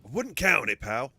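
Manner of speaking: a hint of a scoffing tough guy; rough around the edges. Companion scoffs at the Ogryn's hope, lightly rough around the edges. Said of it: "he's gonna be rough around the edges".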